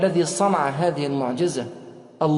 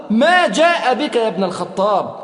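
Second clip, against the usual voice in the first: slow, weighty challenge, slowing at the end; forceful; slower than usual. Retold or imitated. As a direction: press each word with strength. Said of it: "وقال له في قوة". (بقوة وبطء)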